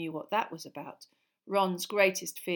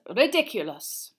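slow, clear, louder incantation; spell demonstration; 3 semitones higher, 10 dB louder than usual. Acted. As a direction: model the word RIDICULOUS slowly and loudly. Teacher models spell for class.

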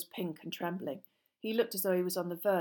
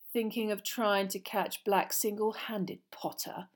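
slow, needling schoolboy; sneering Malfoy taunt; 2 semitones higher than usual. Acted. Malfoy needles Potter about catching Black, slow taunt.

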